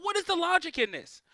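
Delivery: ordinary talk, nothing marked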